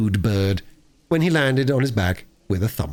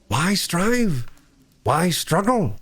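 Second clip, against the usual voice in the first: higher, dramatic self-questioning; Toad musing; 8 semitones higher, much slower than usual. A narrator's reading. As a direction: surrender with a sigh of drama. Toad to himself.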